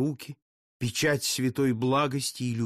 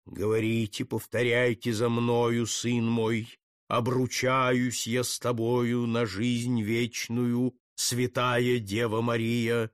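slow solemn priest; 3 semitones lower, slower than usual. Acted. Priest dictates the vow.

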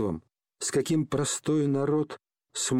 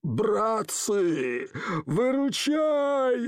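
panicked yell; 7 semitones higher, much slower than usual. Acted. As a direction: howl for his mates to save him. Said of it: "заорал Гундосый".

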